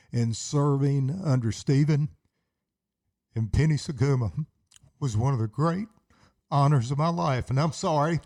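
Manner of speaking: choked up, pausing between phrases; real emotion welling up; emotional. Real, not acted. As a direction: hold back tears while paying tribute. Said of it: "get a little emotional".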